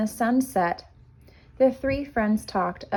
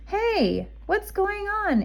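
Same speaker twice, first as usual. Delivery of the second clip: muffled voice; 12 semitones higher, slower than usual. A narrator's reading. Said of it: "it cried".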